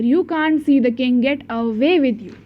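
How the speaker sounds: guard's refusal read out slowly to the class; slow storybook reading. Acted. Teacher reading the guard's English line, slow and deliberate.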